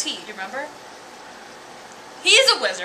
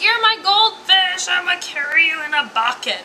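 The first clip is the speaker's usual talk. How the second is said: lightly voiced excited little boy, higher pitch; a hint of a child claiming a pet, pitched up; excited kid; 7 semitones higher, 4 dB louder than usual. Kid to his new goldfish, lightly mocked excitement. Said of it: "this kid is like".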